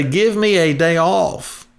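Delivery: high, slow plea from a tired dishwasher; begging for a day off, hammed-up; worn-out dishwasher. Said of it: "they would say".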